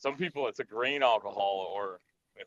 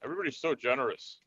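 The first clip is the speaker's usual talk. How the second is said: whispered aside; 5 dB quieter than usual. Real, not acted. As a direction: breathe it under your breath. Aside while others smoke.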